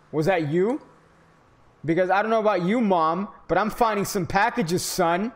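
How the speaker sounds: loud, high, hyped-up shouting; hyped gamer yelling at mom and son. Real, not acted. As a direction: yell like you just struck gold. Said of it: "Sorry, I got hyped".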